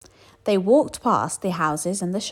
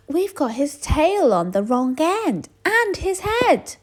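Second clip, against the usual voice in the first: high, slow fretting voice; worried skeleton; 10 semitones higher, 4 dB louder, slower than usual. A narrator's reading. Skeleton spots the tail on wrong end, high and slow. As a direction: realise the mistake slowly.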